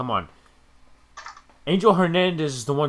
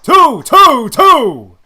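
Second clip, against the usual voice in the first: excited cheering; 10 semitones higher, 18 dB louder, slower than usual. Real, not acted. Cheering a hit live.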